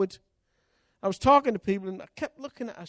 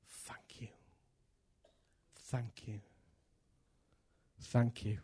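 soft whisper, slowly gaining voice; whispered thanks; 7 semitones lower, 12 dB quieter, much slower than usual. Retold or imitated. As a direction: breathe it out in awe, barely audible.

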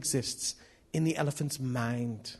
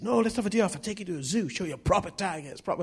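put-on higher-pitched, rough Indian accent; 6 semitones higher, faster than usual. Preacher quoting his friend urging a zoo trip, light Indian accent. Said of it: "is this an Indian accent?".

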